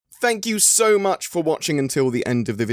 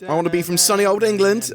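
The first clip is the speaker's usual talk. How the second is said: higher-pitched, hammed-up English accent; put-on English accent; 10 semitones higher, 3 dB louder than usual. English YouTuber clowning mid-ad, put-on English accent. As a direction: exaggerate your own English accent for fun. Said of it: "I'm doing an English accent".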